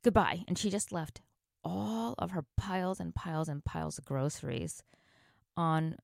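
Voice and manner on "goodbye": starts very high, ends loud and cutting; imitated angry exit. Customer snatching her card back and leaving, retold fury. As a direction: storm off with a loud parting shot. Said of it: "She's like".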